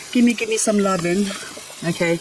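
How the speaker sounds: ordinary delivery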